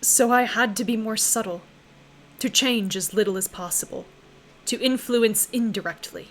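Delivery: a lightly voiced ancient being mourning deaths; the Endless, sorrowful. Game master voicing the Endless to the party, grieving.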